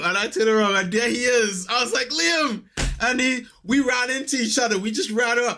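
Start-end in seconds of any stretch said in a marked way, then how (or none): 2.1-2.6 much higher, excited shout of a name; excited call. Retold or imitated. Fan spotting his fellow Arsenal friend at the office. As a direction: call out in delight.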